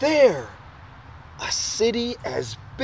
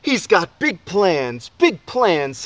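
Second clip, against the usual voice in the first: cheering crowd; 2 semitones higher, 5 dB louder, slower than usual. Acted. Crowd chants about boy.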